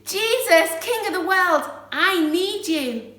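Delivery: loud, high-pitched plea; crying out. Shown as a demonstration. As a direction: call out boldly for rescue. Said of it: "cry out".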